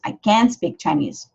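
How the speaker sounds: can't said short with the t dropped, I can't speak Chinese; natural American can't; reduced can't. Shown as a demonstration. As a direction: swallow the t in can't. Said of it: "esse som que a gente tem que reduzir".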